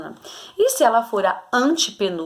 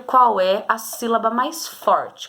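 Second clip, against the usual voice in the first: slowed phrase, each syllable laid out; careful, slow saying; slower than usual. Shown as a demonstration. Teacher to pupils, slowing down to find the stress. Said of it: "falar com cuidado pra mim descobrir".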